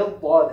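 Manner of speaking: बाद as a heavy emphatic daad; loud, firm demo of बाद with a thick d; correct Arabic dad. Shown as a demonstration. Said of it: "ये बाद है".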